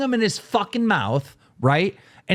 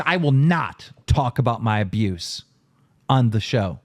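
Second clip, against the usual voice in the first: Boogie; 8 semitones lower than usual. Retold or imitated. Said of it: "Boogie says".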